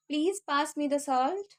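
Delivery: very slow and clear; slow down so students can repeat; slow for practice. Shown as a demonstration. Teacher slowing down so viewers can repeat. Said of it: "इसलिए मैं धीरे-धीरे बोल रही हूँ".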